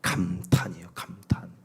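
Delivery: breathy hushed emphasis on 감탄; whispered 감탄. Shown as a demonstration. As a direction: whisper the word 감탄 softly. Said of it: "여러분이 할 일은". (감탄을 속삭이듯)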